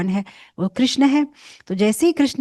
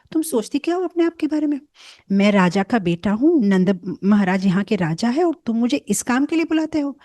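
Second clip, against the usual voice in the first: indignant refusal. Acted. Young Krishna scolding the gopi, indignant rant. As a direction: protest as a spoiled prince pulled from his game.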